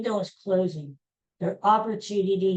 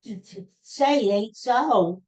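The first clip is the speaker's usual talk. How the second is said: mock heartbroken plea; 3 semitones higher than usual. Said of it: "And I'm like".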